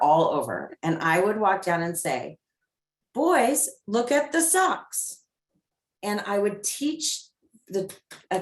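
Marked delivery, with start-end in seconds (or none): 3.1-5.2 put-on higher, light call to the boys; light respectful request. Shown as a demonstration. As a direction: keep it bright and easy, no scolding. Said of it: "it's kind of higher pitched".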